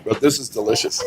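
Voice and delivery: talking with a mouth full; words round a mouthful of food. Real, not acted. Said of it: "I'm gonna talk with my mouth full".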